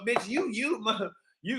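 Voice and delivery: ordinary delivery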